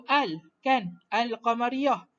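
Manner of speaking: "al" with an audible lam, then "Al-qamariyah"; lam pronounced. Shown as a demonstration. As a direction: sound the L clearly in "Al-qamariyah". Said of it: "lam tu masih disebut".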